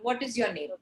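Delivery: "What is your name?" with the pitch dropping at the end; falling tone. Shown as a demonstration. Teacher showing an unemotional question, falling tone on "What is your name?". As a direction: let "What is your name?" fall away at the close. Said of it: "you're using a falling tone".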